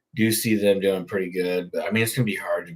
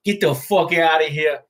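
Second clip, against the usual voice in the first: higher, louder mock yell; 8 semitones higher, 5 dB louder than usual. Retelling a favorite McDonald's clip, loud mock yell. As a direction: belt it out like the guy in the video.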